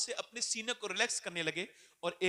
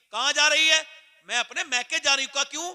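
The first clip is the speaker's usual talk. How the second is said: higher, louder heated exchange; acted quarrel; 7 semitones higher, 12 dB louder than usual. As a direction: hurl the questions at the wife. Voiced quarrel with wife. (बीवी से ऊँची आवाज़ में झगड़ा)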